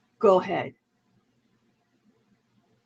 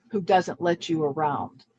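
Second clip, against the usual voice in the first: ordinary delivery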